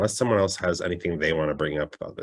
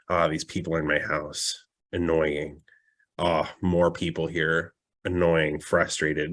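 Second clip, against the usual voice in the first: low, softer grumble imitating irritation; mildly irritated demon; 3 semitones lower, 4 dB quieter than usual. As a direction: play a demon's understated annoyance at intruders. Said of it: "he gets very irritated".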